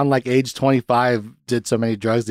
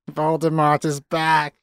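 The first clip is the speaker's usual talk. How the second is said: mock child-actor melodrama, held back; slow, stretched imitation; half-hearted rerun of a dramatic cry; Harry Potter; 3 semitones higher, slower than usual. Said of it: "then it cuts to Harry, and he's like".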